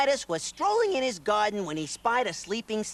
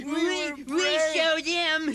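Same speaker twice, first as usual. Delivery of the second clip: excited cheer; 10 semitones higher, slower than usual. Acted. Piglet cheering.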